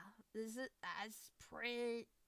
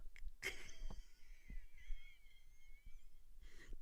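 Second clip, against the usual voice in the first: high, thin squeal of laughter; quiet high-pitched half-crying laugh; pained laughing whimper; 7 dB quieter than usual. Real, not acted. Streamer hit by a dropped mic, pained squeaky laugh.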